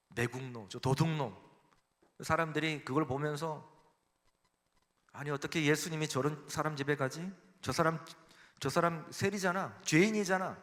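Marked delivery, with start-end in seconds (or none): 5.1-10.6 gossiping crowd. Retold or imitated. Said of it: "그렇게 막 쑥덕거리는 거예요".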